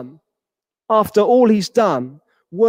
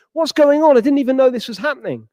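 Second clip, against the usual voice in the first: indignant demand; 6 semitones higher, 3 dB louder, faster than usual. Acted. Servant called over, son demands.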